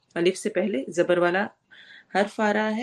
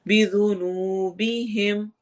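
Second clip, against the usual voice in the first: slow Quran recitation; much slower than usual. Shown as a demonstration. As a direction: soften the ذ in بذنوبہم. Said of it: "ذال نرمی سے". (ذال نرمی سے تلاوت)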